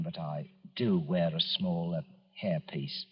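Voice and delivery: slow, soft, sheepish admission; embarrassed confession. Acted. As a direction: own up to it quietly, squirming. Confessing his toupee to inspector.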